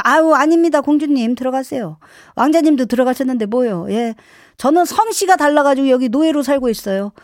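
pointedly over-polite refusal; mock deference with a sting; sarcastic mother. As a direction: imitate a mum playing the martyred servant. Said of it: "비꼬면 더 힘들어요".

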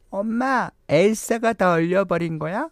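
put-on high, cute little kid voice; child voice. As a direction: lightly voice a small daughter.

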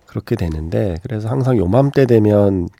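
stuffy nose from rhinitis; blocked-nose voice, slowed; nasal voice. Real, not acted. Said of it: "제가 이렇게 코맹맹이 소리로".

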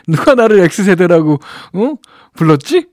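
slow, laughing disbelief. Real, not acted. Host amused to find she's Gen X, laughing. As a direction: laugh through the question.

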